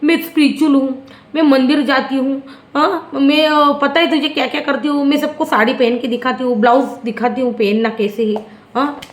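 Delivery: lightly voiced pious show-off girl; a hint of a girl bragging about being spiritual; Tania imitation. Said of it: "मैं वरना बोलती यहाँ पे तानिया के dialogue".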